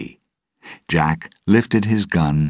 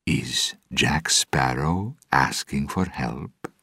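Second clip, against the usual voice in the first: amused, slow teasing; 3 dB quieter, slower than usual. Acted. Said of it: "she asked, amused".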